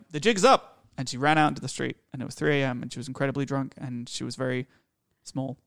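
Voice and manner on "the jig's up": hammed-up high, loud declaration; mock dramatic. Drunk girlfriend declaring, hammed-up and loud. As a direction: announce it like a cartoon villain caught. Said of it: "the person was like".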